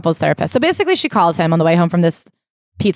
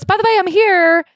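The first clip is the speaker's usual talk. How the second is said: high, airy put-on mom voice; hammed-up careless mother; mock breezy mother; 11 semitones higher than usual. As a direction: announce it lightly, way up high.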